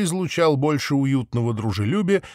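ordinary delivery

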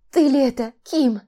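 high, loud, overwhelmed; stunned disbelief. A narrator's reading. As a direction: ask in breathless disbelief. Sister stunned at reunion.

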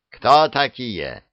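slow, stern demand; a guard captain barking a challenge. Acted. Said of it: "сурово спросил начальник охраны".

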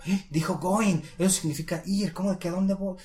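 hammed-up bewildered learner; mock confusion. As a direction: act thrown by an unexpected word. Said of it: "ya no te vas a confundir como".

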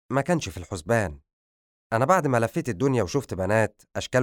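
understated torment, mostly hurried phrases; pained, pressing on through the confession. Acted. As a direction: confess it with a touch of anguish. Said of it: "حمل صوته الكثير من العذاب وهو يقول".

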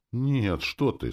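kind reassurance, pitched high; kindly. A narrator's reading. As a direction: soothe with a lifted, unforced voice. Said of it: "сказал я добрым голосом". (добрым голосом, повыше)

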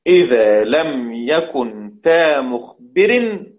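slow chanted recital of the verse rule; measured recitation; recited rule. Shown as a demonstration. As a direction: intone the rule slowly like a teacher. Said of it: "teacher recites the rule line".

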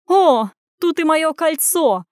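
slow, high, loud gasp of mock surprise; gasping fake surprise. A narrator's reading. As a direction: put on a show of finding it. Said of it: "ахнула начальница".

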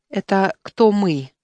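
slow, held-back calm question; deliberately calm question; forced calm. Acted. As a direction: keep it slow and level to hide the anger. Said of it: "спросил я как можно спокойнее".

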